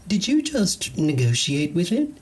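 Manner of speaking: astonished alien squeak; amazed alien. Acted. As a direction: alien gawking at the handyman's trick, high and amazed.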